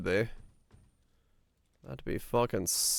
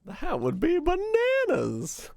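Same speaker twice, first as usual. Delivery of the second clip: 1 high silly punchline; slower than usual. Acted.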